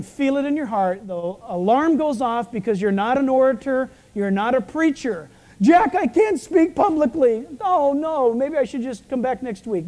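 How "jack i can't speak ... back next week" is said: worried congregant. Retold or imitated. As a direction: play a nervous listener begging off. Congregant fretting about public speaking.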